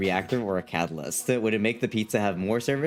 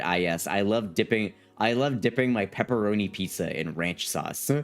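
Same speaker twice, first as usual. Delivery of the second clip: mock proud American; 4 semitones lower than usual. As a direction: parody a proud pizza-loving American. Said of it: "one of the most American sentences I've ever heard".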